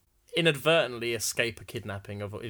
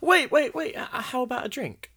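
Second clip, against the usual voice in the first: high, loud call to stop him; urgent call; 10 semitones higher, 5 dB louder than usual. Acted. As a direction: call him back in a hurry. Maiden calls out to bartender.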